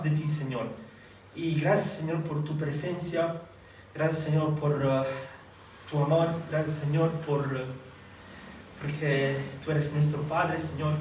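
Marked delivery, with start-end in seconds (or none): none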